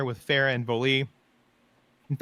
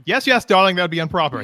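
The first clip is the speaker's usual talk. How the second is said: regal uncle; 5 semitones higher, 9 dB louder than usual. Acted. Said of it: "He's like".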